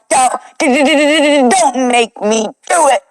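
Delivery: teasing sing-song through a laugh; laughing taunt. Real, not acted. Needling the rival about the threat, laughing sing-song taunt. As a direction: giggle the taunt at them.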